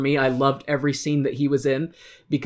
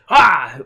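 attempted character yell; 2 semitones higher, 9 dB louder than usual. Shown as a demonstration. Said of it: "Let me see if I can kinda do it".

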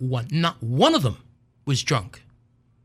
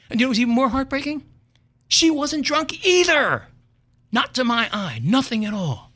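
loud, high, slowed punchline; high loud incredulous emphasis; indignant outburst; 12 semitones higher, 6 dB louder than usual. Real, not acted. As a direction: rise up in outrage. Indignant emphasis after sad whisper.

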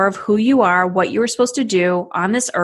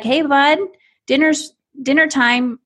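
loving call; 7 semitones higher than usual. Pretend. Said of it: "Like, with a smile on your face".

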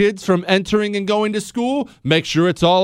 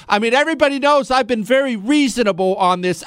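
mock moderate; 3 semitones higher, faster than usual. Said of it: "they'll say things all the time like".

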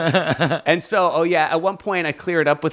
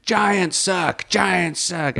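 raised-pitch mock screaming; retold heckling; 5 semitones higher, much slower than usual. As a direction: imitate a drunk heckler's chant. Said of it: "screaming at me on stage".

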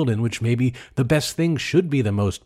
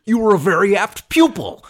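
Jimmy Stewart impression; 9 semitones higher, 5 dB louder than usual. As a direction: do Jimmy Stewart once more. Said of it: "Let's just do it a couple times".

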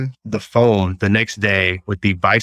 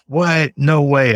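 retold wife's surprised outburst, pitch jumping higher; surprised disbelief; 6 semitones higher, much slower than usual. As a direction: play the wife hearing news she can't believe. Wife reacts to surprising news.

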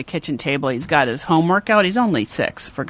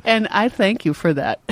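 lightly imitated solemn grandmotherly thanks; grandma-like child. Mother repeating her son's thanks, lightly grandma-like. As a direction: quote a kid sounding like an old soul. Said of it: "Like my grandma's all of a sudden talking".

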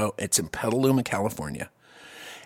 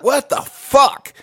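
stretched, higher-pitched disbelief; shocked disbelief; 10 semitones higher, 4 dB louder, much slower than usual. Retold or imitated. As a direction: draw it out, aghast at what you grabbed. Retold shock at potato hand.

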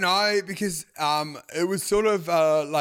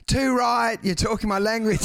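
lightly voiced eager agreer, pitched up; people pleaser; 5 semitones higher than usual. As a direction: agree a bit too keenly, higher. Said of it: "as a people pleaser going like".

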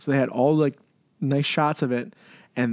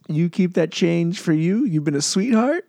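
put-on slow, higher-pitched generous drunk; imitated drunk tipper; 4 semitones higher than usual. Drunk customer leaving change for the Publix lady, mock sweet-talk. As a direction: lightly play a tipsy man sweet-talking a cashier. Drunk man tips the cashier.

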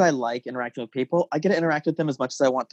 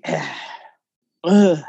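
short grunt, then a loud, higher "ugh"; mock disgusted groan; 3 semitones higher, 5 dB louder than usual. Answering people who say be lucky to work, mock groan. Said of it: "You're like".

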